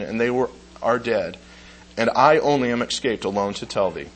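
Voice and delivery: measured, solemn reading of Job; steady solemn recitation of the Job verses; scripture reading. Acted. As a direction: read it like a preacher reciting scripture.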